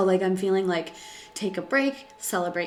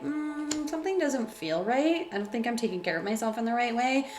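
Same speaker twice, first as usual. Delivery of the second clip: pitched-up, uneasy inner thought, faster at the end; doubting inner voice; 5 semitones higher than usual. Pretend.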